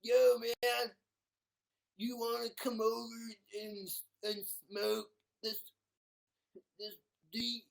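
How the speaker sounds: high-pitched, loud stoner voice. Acted. Stoner inviting a friend to smoke, loud high voice. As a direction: play a really loud stoner. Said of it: "He's a stoner".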